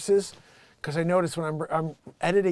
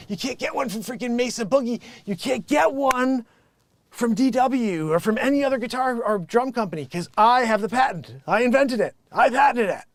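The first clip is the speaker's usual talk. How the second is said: raised, insistent hard sell; boastful sales pitch; 4 semitones higher, 3 dB louder than usual. Real, not acted. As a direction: build to a loud, proud claim. Ranting sales boast about his patent.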